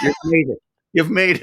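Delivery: imitating mom's joy. Mother praising her son's big break, excited. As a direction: beam it out like a proud mum. Mom's proud reaction retold.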